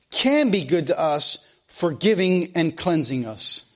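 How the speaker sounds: slow, measured quoting voice; solemn read quotation; scripture-style reading. Acted. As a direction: read it out like holy writ. Reading Tozer quote aloud.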